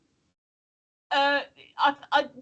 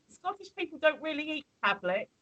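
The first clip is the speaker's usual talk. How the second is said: mock Scottish lad; 8 semitones higher, 4 dB louder than usual. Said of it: "he said".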